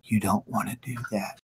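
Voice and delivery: low, soft menacing threat; menacing villain. Acted. Tally man warns quietly.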